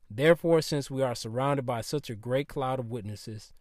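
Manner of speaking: lisping s from retainers. Real, not acted. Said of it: "excuse me for the lisp that you might hear".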